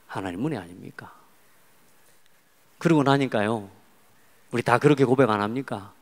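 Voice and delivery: ordinary delivery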